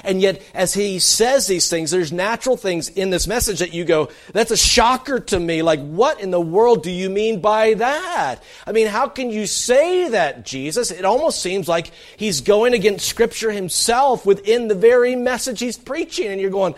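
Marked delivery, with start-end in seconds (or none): 4.3-10.9 shocked listener. Retold or imitated. Listener's shocked question voiced.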